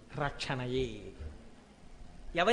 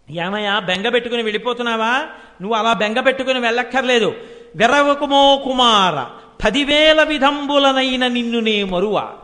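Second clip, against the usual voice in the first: louder, tender consoling of a weeping son; motherly comfort; 6 dB louder than usual. Acted. Mother consoling the weeping sage Vyasa, louder and tender. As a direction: soothe the crying boy like his mother.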